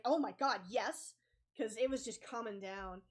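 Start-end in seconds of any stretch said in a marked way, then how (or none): 0.1-1.2 startled teacher. Retold or imitated. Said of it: "And she was like".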